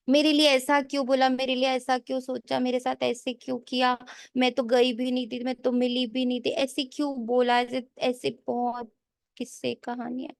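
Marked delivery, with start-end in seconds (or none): 0.1-7.6 mimicked complaint. Acts out aggrieved gossip complaints.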